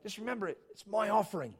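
put-on Australian accent. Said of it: "that's my Australian accent".

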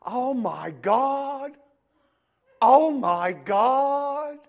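slow, high, stretched oh my God; gushing little girl. Retold or imitated. Girl cooing at the baby, high and drawn out. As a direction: coo over the baby like a smitten girl. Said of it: "she was going".

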